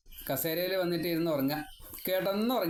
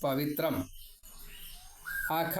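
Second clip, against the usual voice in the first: slow, drawn-out Sanskrit chant; verse recitation; much slower than usual. Acted. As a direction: intone the verse slowly, word by word.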